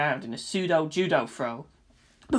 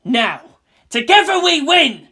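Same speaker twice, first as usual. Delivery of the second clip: louder, higher battle cry; rallying shout; 9 semitones higher, 9 dB louder than usual. A narrator's reading. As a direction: urge her on.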